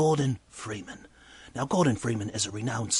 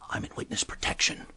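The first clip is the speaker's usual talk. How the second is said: secretive whisper, leaning in close; 3 dB quieter than usual. Retold or imitated. Gordon whispers his secret to the bartender. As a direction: breathe it out like a secret. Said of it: "He whispers".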